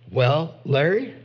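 slow, evasive pastor with long pauses; Texas pastor imitation. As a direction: mimic a pastor stalling, word by word. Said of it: "that's a really good imitation of him".

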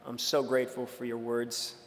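low, soft, humble thank-you; softly and lowly humble, a mock version of the reply; mock meek gratitude. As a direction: pretend Peter as a grateful, meek disciple. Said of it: "No, that's not what Peter said".

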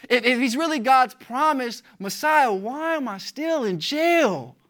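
mildly voiced questioning prisoner; acted wondering doubt. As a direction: build a doubter's protest, drawing out each final question. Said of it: "he's starting to wonder then".

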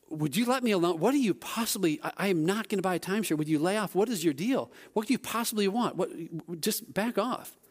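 exasperated telling-off, not shouted; ticked off. Retold or imitated. Tourist tells salesman to back off, mildly ticked off. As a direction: replay a mild, irritated outburst. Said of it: "I'm, I'm really ticked off".

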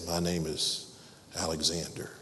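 low, soft mumble under the breath; mumbled. A narrator's reading. Scared young soldier mumbling his name to the king. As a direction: mumble it nervously, barely audible. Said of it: "mumbled under his breath".

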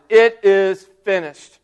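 loud, slow proclamation; shouted. Acted. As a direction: call it out with all his strength. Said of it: "and he shouted".

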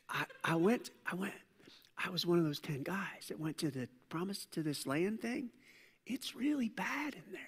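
spy spreading a bad report, whispered; gossip whisper. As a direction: spill bad news in a hushed whisper. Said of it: "this whisper thing".

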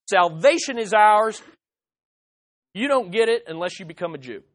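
proud boast. Retold or imitated. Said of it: "They're like".

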